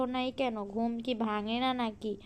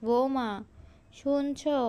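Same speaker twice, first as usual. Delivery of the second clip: calling out. Acted. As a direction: call her from another room. Mother-in-law calls daughter-in-law.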